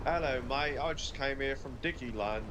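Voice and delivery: put-on British accent. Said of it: "I'm gonna talk in different accents".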